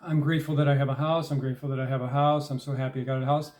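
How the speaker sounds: rattled off fast with no feeling; empty recital. Shown as a demonstration. Showing listeners a hollow affirmation, rapid empty recital. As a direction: rush through it like rote repetition. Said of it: "there's nothing behind it".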